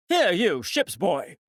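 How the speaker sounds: a sharp shout across the deck; captain crying out. Acted. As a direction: catch the ship's boy's attention. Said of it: "he cried".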